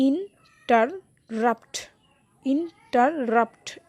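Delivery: ইন্টারাপ্ট in three slow pieces, landing on রাপ্ট; two lighter syllables, then a weighty রাপ্ট in ইন্টারাপ্ট; stress on last syllable. Shown as a demonstration. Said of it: "রাপ্টে না বেশি stress".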